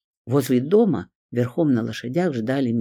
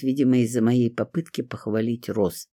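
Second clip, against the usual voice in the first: plain reading voice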